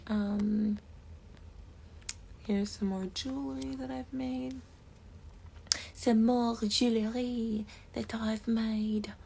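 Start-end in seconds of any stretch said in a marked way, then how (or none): 5.9-9.1 slow, breathy mock French accent; a hammed-up French accent, slowly; attempted French accent. Shown as a demonstration. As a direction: try it in a bad French accent. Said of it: "that was not French".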